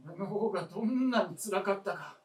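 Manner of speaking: anguished outburst. Acted. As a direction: push the pain out. Old man's anguished outburst.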